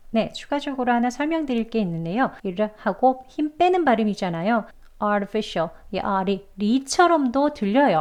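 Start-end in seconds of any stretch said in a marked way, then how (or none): 5.0-5.7 artificial with the middle as a tiny light "ri"; short weak flap. Shown as a demonstration. Teacher explains the weak vowel, artificial with a barely-there middle. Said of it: "아주 짧게 약하게 해서 그렇습니다".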